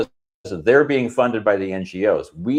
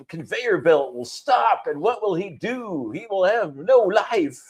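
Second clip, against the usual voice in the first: high, slow melodramatic lament; mock lament; 9 semitones higher, slower than usual. Joking about a man losing his chicken strips, mock lament. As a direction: overdramatise the doom, voice pitched high.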